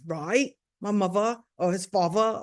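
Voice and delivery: lightly imitated British pronunciation; a hint of British accent. Idris confirming his parentage, light British accent. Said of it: "or however they say it".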